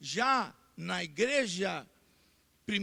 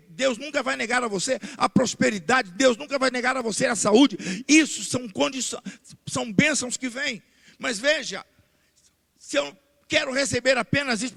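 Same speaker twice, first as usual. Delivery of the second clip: loud, driving preaching; pregação inflamada; 8 dB louder than usual. Real, not acted. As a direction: preach it out at full force to the congregation. Prega com toda a força. (pregação em voz alta, com toda a força)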